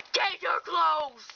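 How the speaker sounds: slow, tearful shouted command; emphatic, drawn-out weepy demand; upset mother's order. Acted. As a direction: order it slowly, half crying, half shouting.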